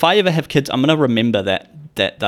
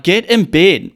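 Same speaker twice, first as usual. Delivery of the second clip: parental yell; 7 semitones higher, 5 dB louder, slower than usual. Retold or imitated. Parents yelling at child.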